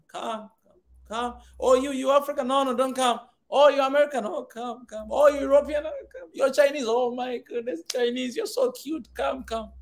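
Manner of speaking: fawning mock welcome, sweet to foreigners. Preacher mocking Africa welcoming outsiders, sarcastic coaxing. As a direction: play the gushing host with a sneer.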